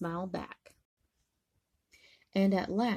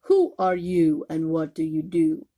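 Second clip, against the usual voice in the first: roaring lions; 2 semitones lower, 7 dB louder than usual. Acted. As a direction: roar the question like a big cat. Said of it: "the lions roared".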